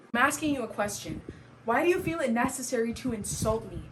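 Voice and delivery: confronting a mother, firm and measured; acted, pointed question from a hurt daughter; Ivy. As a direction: demand an answer from someone who insulted you. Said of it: "soliloquy that I wrote for Ivy".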